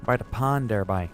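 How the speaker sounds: put-on a touch of Newfoundland accent; lightly put-on Newfie lilt. Streamer showing viewers how Newfies talk, light Newfoundland accent. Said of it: "that's how the Newfies speak".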